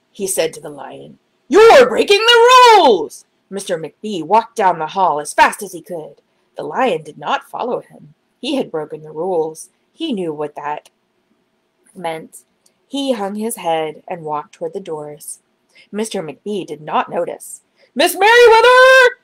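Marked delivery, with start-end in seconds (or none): 1.5-3.3 slow, high, loud reproach; scolding. Acted. Clerk scolding the lion for noise, slow high loud reproach. 18.0-19.2 high loud urgent call. Acted. Clerk calling for the head librarian, high and loud. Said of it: "he called as he walked".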